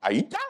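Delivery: "Aita" begun with an "eye" sound, rising; different pronunciation. Shown as a demonstration. Comedian testing another way to say "Aita", eye-ta pronunciation. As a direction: try out "Aita" tentatively, as eye-ta. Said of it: "let me try a different pronunciation".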